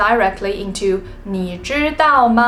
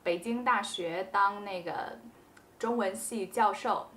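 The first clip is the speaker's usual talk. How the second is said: much softer, easy 那个 fillers; 轻声自然地用那个; relaxed filler demo; 16 dB quieter than usual. Shown as a demonstration. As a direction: drop 那个 in casually while thinking. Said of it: "you can say 那个".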